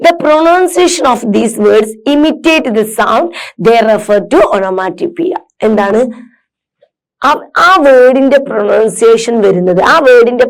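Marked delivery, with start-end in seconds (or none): 0.1-5.4 slow, careful read-aloud for students; measured classroom reading. Acted. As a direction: read each word out slowly and clearly. Reads definition aloud.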